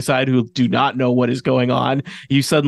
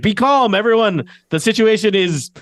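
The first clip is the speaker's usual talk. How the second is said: high, raised crowd-control call; guard's shout; 7 semitones higher than usual. Acted. Guard tries to settle panicking guests, raised shout. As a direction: call over a panicking room as an anxious guard. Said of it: "some shouts from the, from the guards".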